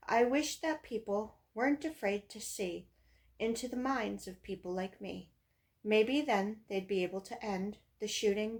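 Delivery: emphatic verse reading, stresses punched at line openings; poem recitation. Acted. Reading own poem about death at school, emphatic recitation. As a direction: declaim it line by line, leaning on the rhymes.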